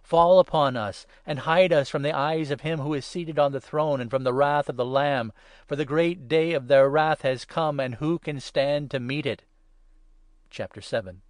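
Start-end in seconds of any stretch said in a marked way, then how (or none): 0.0-9.4 loud, higher, terrified plea; loud, higher panicked crying out; desperate cry. A narrator's reading. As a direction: scream it to the mountains in dread. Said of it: "they were crying to the mountains".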